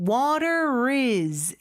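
"water is" run together as one word; "water is" slowly joined with no gap; linked pronunciation. Shown as a demonstration. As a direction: link the R of "water" into "is". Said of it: "요렇게 발음이 돼요".

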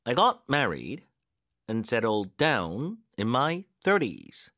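measured English drill with strong stresses on key words; stressed practice reading. Shown as a demonstration. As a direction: stress on married, down and thirties. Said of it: "강세 넣는 연습해볼게요".

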